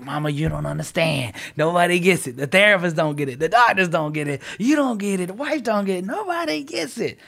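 mock self-pity, building to a high plaint; retold pity story. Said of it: "going into my story".

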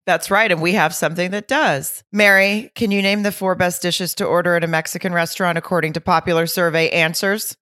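upbeat sponsor read for the trivia game. Acted. Host opening a sponsor spot, upbeat ad read. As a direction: sell it cheerfully like a podcast ad.

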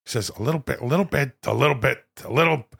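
slightly soft, repeated catchphrase impression; Al Pacino doing Robert De Niro. Pacino quoting his friend Bobby, lightly voiced mock De Niro. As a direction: lightly try out a famous actor's mannered phrase. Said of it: "And Bobby says".

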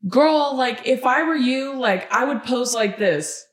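high sassy advice-giver. Retold or imitated. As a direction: hand out pose tips with sass. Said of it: "some people were literally like".

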